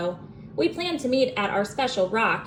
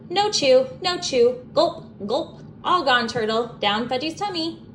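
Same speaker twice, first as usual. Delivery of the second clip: put-on babbling toddler; 4 semitones higher than usual. A narrator's reading. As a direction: babble it like a proud little boy. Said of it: "Fudge babbled".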